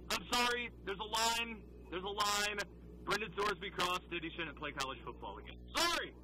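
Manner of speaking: emphatic, unapologetic verdict; Armin Williams. Acted. Host rules on a betting scandal, imitating his boss. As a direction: lay it down in a colleague's manner. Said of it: "a really good Armin Williams impression".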